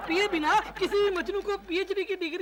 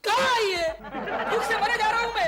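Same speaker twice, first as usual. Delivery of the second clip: loud complaint; 4 semitones higher, 3 dB louder than usual. Acted. Hungry brother-in-law complains.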